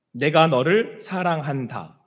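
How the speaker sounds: slow, tender divine voice; God speaking tenderly. Acted. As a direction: let each word land slowly and gently. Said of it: "이렇게 말씀하시는 거예요".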